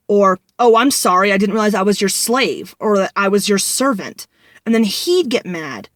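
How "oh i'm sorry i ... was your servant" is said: lightly imitated sarcastic sorry; mock-apologize, pushing the first words; sarcastic apology. Boyfriend retorting to a request for dishes, mildly sarcastic.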